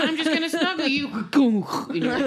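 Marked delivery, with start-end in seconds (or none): 0.1-1.1 high, fast cutesy voice; cutesy baby voice. Retold or imitated. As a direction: coo it like a clingy baby. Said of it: "so it's like".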